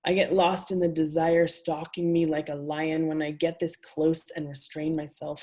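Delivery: measured, intimate poetry reading; reading her own words to a live audience; reading aloud. A narrator's reading. Author reading her erotic prose to an audience, intimate and measured.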